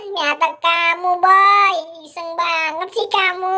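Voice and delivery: high, whining reproach; upset complaining. Acted. Po blaming Boy for the prank, upset whine.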